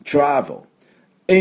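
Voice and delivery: slow English "トラベル", second vowel only touched; barely voiced vowel. Shown as a demonstration. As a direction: model "トラベル" as TRA-vl, pitched high. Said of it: "ちょっと出すだけ".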